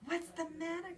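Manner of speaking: high, sweet and coaxing start; cooing. A narrator's reading. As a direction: coo gently to a sad child. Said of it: "cooed Missus Tamworth".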